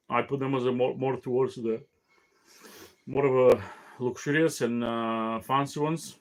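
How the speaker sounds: talking through a yawn; yawning between words. Real, not acted. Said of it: "I cannot stop yawning".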